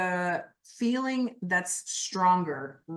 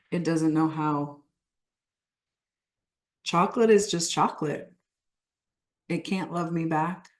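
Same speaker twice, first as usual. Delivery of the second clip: low, measured statements with long pauses; guided affirmation; 4 semitones lower than usual. Acted. Coach leads the group in letting go of chocolate, measured. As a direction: state it calmly for others to repeat. Leads repeat-after-me script.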